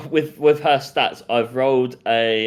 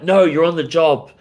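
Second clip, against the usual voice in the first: detective Barbie eyeing Ken's abs; noir detective Barbie; 6 semitones higher than usual. Acted. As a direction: scold him like a tipsy noir sleuth.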